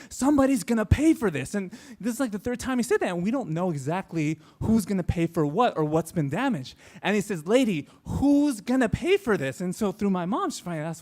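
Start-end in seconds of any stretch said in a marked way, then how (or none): 0.1-1.5 mock irate demand, pitched up; angry yelling. Batman actor arguing with Kevin's mom, angry. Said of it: "he's yelling at her". 7.5-9.6 slow, mock-indignant demand; angry demand. Batman actor confronting Kevin's mom over payment, angry. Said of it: "he's yelling at her".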